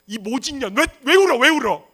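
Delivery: high, loud acted tirade; parent's scolding. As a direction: scold while hitting a crying child. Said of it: "왜 그렇게 때려요?". (때리면서 악쓰며 야단치듯)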